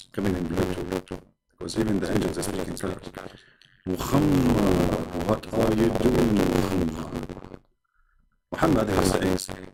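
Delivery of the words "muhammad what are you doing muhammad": slow angel call. Acted. Angel calls Muhammad.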